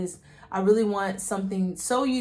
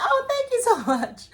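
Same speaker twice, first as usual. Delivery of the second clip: high, flustered thank-you breaking into a laugh; 13 semitones higher than usual. Retold or imitated. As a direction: laugh through the thanks, flattered. Flattered thanks to "she's so cute.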